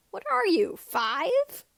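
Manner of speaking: high, loud disgusted complaint; exasperated complaint. A narrator's reading. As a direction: scold a childish friend, loud and high. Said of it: "Biggs complained".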